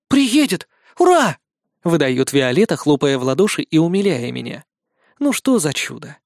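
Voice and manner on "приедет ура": put-on high delighted child cheer; excited cheer. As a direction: cheer like a happy little girl. Little girl cheering.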